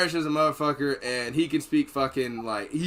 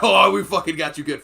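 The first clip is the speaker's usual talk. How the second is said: gloating tease; 4 semitones higher, 8 dB louder than usual. Retold or imitated.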